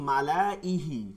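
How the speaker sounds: মালা ইহি said slowly, each syllable spelled out; slow demo. Shown as a demonstration. Teacher slowly models মালা ইহি for the class. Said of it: "কিন্তু হবে কি মালা ইহি".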